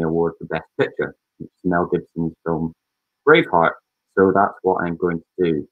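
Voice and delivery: slightly muffled voice, hand over mouth. Real, not acted. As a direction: talk through a covered mouth. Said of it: "sorry if I'm muffled".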